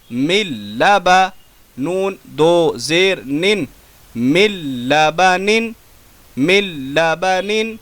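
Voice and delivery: measured syllable-by-syllable chant; tajweed spelling recitation. Shown as a demonstration. Teacher spelling out words for the class, chanted. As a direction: spell each letter, then join the word.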